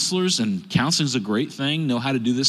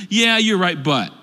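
mock yeah-but excuse; 3 semitones higher, 4 dB louder than usual. Mocking yeah-but people.

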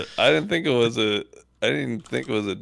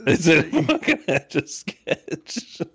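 slow, laughing disbelief; 2 semitones higher, much slower than usual. Real, not acted. Mocking the gadget, laughing.

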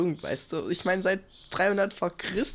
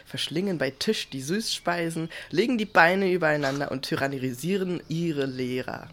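reading aloud. Real, not acted. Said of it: "ich werde dir das jetzt vorlesen".

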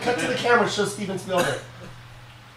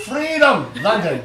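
Braveheart Scottish accent; slower than usual. Shown as a demonstration. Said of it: "becomes Mel Gibson from Braveheart".

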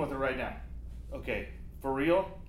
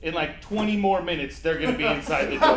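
frantic pleading; 4 semitones higher, 9 dB louder than usual. Acted. Frantic caller begs for help.

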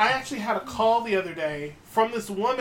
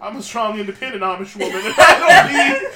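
strong independent woman; 7 dB louder than usual. Retold or imitated. Quoting an Amish woman caller, mock-defiant. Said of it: "She was like".

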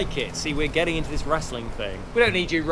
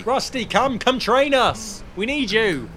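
loud high pleading shout; pleading call; 9 semitones higher, 5 dB louder, slower than usual. Real, not acted. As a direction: beg him to come out, loud. Begging the hiding trainer back.

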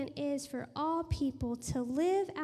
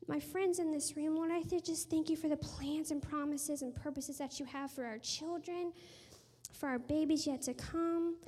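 earnest, running prayer with lightly lifted pitch; spontaneous prayer; 3 semitones higher than usual. Real, not acted. Speaker praying over friends in the room, earnest prayer. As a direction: pray aloud, phrase after phrase.

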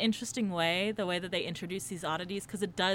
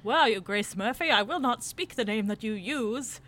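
shouting; 5 semitones higher, 4 dB louder than usual. Retold or imitated. Quoting the villain's megaphone shouts.

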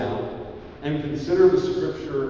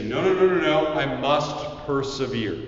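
firm refusal. Acted. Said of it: "But you say".

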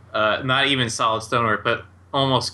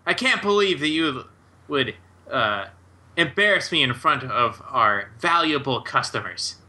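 irate; 3 semitones higher than usual. Acted. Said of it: "And Thocum is irate".

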